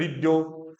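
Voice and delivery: री जो said quickly and short; rushed. Shown as a demonstration. Teacher imitates the rushed habit. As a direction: throw री जो off fast. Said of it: "हम तो ये करते हैं ना".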